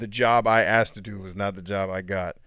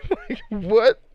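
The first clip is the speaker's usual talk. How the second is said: surprised; 14 semitones higher, 8 dB louder than usual. Real, not acted. Disbelief after laughing.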